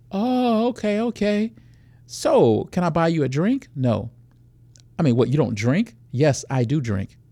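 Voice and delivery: lightly voiced predator chatting up a woman; acted nightclub pickup. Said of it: "walk you through a quick scenario".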